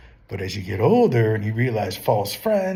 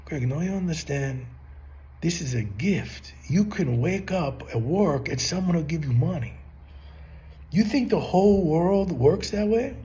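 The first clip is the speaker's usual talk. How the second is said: lightly imitated Italian-accented father; a touch of Italian accent, urging his son to understand; retold Italian-accented dad, lifting into an incredulous question; father's Italian accent; 5 semitones higher, 3 dB quieter than usual. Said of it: "he had Italian accent".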